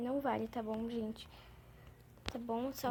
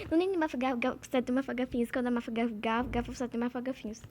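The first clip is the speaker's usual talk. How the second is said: tongue twister again, louder and surer; louder confident retry; 3 dB louder than usual. Shown as a demonstration. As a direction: push through it with confidence. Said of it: "Calma, gente".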